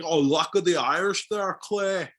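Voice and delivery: put-on Texan actor's botched Irish accent; bad Irish accent. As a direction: fake a hammy, mangled Irish accent. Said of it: "That's a good impression".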